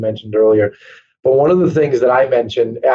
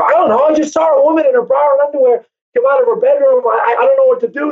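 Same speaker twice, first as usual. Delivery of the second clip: higher, fast, stammering panic; replaying his frantic call to his partner, higher and hurried; flustered panic, retold; 10 semitones higher, faster than usual. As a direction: rush it out like he's rattled. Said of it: "it totally shook me up".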